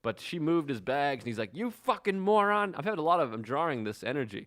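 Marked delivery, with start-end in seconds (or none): 1.5-2.7 slow, higher-pitched mock rant; retold screaming. Imitating a man berating a woman at Starbucks, restrained mock scream. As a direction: imitate an angry man without raising the volume. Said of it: "he's just screaming at this old woman".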